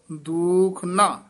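slow "ਦੁਖ ਨਾ", then a short hold; drawn-out, separate "ਦੁਖ ਨਾ"; slight pause after. Shown as a demonstration. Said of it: "ਇੱਥੇ ਥੋੜਾ ਠਹਿਰਾ ਦੇ ਦੇਣਾ".

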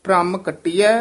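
ਭ੍ਰਮ ਕਟਿਐ rising, then a rest; ਕਟਿਐ ਉੱਤੇ ਠਮਕ; pause after phrase. Shown as a demonstration. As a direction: hold briefly after ਕਟਿਐ. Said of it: "ਇੱਥੇ ਠਮਕ".

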